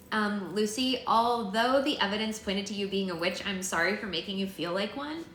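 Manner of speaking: lightly voiced reluctant apology; Tangerina, apologizing. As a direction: swallow your pride and say sorry.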